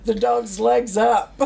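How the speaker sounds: cracking up while recounting it; laughing. Real, not acted. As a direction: tell the punchline through giggles. Laughing at the story's punchline.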